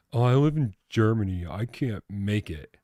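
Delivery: joking attempt at a German accent. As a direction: put on a rough German accent, drawn out at the end. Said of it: "That's my German accent".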